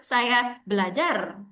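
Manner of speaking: "Saya belajar" slowed again, with "Saya" stressed. Shown as a demonstration. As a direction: another take leaning on "Saya".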